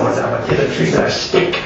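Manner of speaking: lightly voiced old man impression; a hint of the ancient old man, trailing off; Mel Brooks' 2000 Year Old Man. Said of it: "you remember Mel Brooks' two thousand Year Old Man?".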